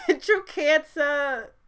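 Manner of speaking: giggling through the words; laughing. Real, not acted. Laughing at herself for getting teary, high and slow. Laughing at her own emotion.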